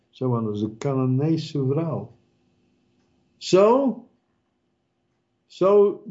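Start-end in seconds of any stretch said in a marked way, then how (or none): 3.4-6.0 emphatic exclamation. Acted. Preacher exclaims.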